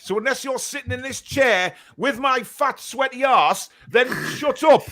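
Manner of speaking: a mock-exasperated rant. Real, not acted. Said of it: "End of rant".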